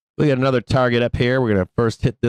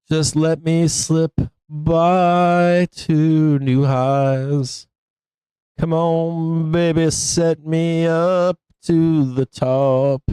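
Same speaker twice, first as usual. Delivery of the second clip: high, slow coaxing; pleading with the chart; 5 semitones higher, much slower than usual. Real, not acted. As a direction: coax the price up like a lover. Urging chart upward.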